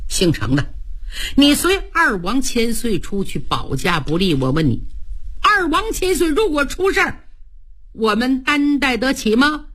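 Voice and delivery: a military adviser dressing down a general; stern adviser scolds Cheng Yaojin; stern rebuke. Acted. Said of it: "把脸沉下来".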